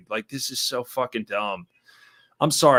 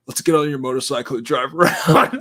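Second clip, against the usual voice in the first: laughing mock quote; 2 semitones higher, 5 dB louder than usual. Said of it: "And they're like".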